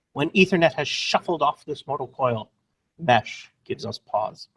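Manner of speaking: lightly hammed-up Hamlet soliloquy, a touch theatrical; mock Shakespearean recitation. Presenter opens his mesh webinar with a parody soliloquy, lightly theatrical recital. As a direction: recite it like a stage Hamlet, half in jest. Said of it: "I'm gonna start with a Hamlet quote on Mesh".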